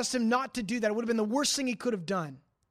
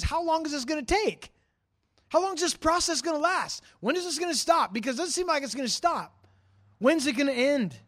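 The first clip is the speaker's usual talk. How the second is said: higher, insistent run of questions; impatient questioning; 4 semitones higher than usual. Retold or imitated. Preacher voices David asking God how long, impatient. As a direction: press each question at God, pitched up. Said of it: "but then he says".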